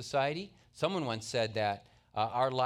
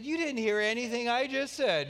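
higher, louder mock scolding; hammed-up parental exasperation; exasperated dad; 9 semitones higher, 5 dB louder than usual. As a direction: play the fed-up father. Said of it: "I lost my attitude. Totally".

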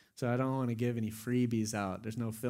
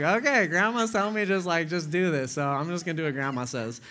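laughing; 4 semitones higher, 4 dB louder than usual. Retold or imitated. Laughing retelling of giving in.

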